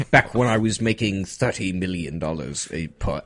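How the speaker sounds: put-on rich old British gent bragging; hammed-up British tycoon; mock British accent. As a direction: boast in a whimsical British voice. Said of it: "Because you said peak of his career".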